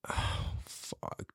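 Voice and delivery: retold sinking-heart whisper, very soft; dreading whisper. Recognizing the police knock, dreading whisper. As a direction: breathe it out under your breath in dread.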